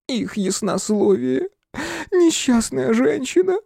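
высокий плаксивый медленный голос; причитай сквозь слёзы, тонко; рыдая. Acted. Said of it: "зарыдал он". (фамильяр рыдает о госпоже, медленно)

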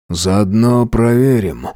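slow smirking tease. Acted. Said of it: "ухмыляюсь".

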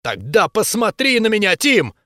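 wife screams at her husband, loud and high; shouting. A narrator's reading. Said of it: "закричала она". (жена кричит, громко и высоко)

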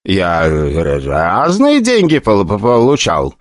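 slow frightened stutter; terrified director stuttering into the phone; stammering fear. Acted. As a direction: stumble over the words in panic. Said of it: "действительно испугался".

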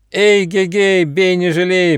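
high, loud rallying yell; rally into the fight at full voice; piercing battle cry. Acted. Ryzh charges into the ferrets, shrieking a battle cry. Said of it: "пронзительно закричал Рыж".

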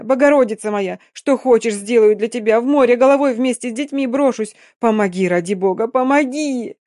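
desperate pleading. Acted. Desperate begging from a mother.

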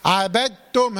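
عبدتم said "abattum", with the d merged into a double t; assimilated dal. Shown as a demonstration. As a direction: demonstrate عبدتم carefully, holding the tt. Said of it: "هكذا".

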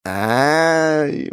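high startled yelp in his head; inner squeal. A narrator's reading. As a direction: squeal at the dropped stats. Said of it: "мысленно заверещал я". (мысленный визг)

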